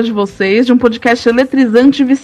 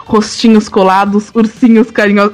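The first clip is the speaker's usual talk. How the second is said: sultry voice; 2 semitones lower than usual. Shown as a demonstration. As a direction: read it like a love letter. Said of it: "vou ler o seu e-mail com voz sexy".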